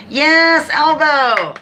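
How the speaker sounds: loud, high excited yell. Real, not acted. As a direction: yell it out in triumph. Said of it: "Sorry, I usually don't yell out".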